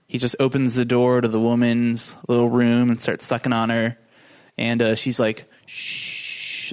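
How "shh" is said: a breathy whispered shush. Retold or imitated. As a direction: hush him softly. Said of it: "like, over his shoulder".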